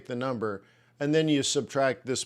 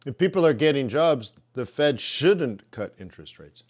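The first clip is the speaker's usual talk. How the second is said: mouth full. Real, not acted. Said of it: "Sorry, I'm eating biscotti".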